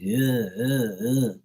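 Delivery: mock heavy "ugh" grunts; stressed grunts. Mimicking how locals stress everything, mock grunts. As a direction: grunt each beat to mimic stressed speech. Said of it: "they stress everything".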